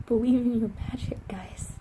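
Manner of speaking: whispered through real tears; choked-up tearful whisper; teary whisper. Real, not acted. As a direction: hold back tears and whisper it. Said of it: "I'm getting crazy teary-eyed".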